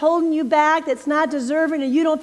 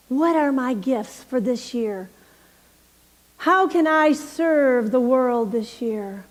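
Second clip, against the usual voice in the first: closing prayer. Real, not acted. Minister leading the congregation in a hushed prayer. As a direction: guide them gently into prayer.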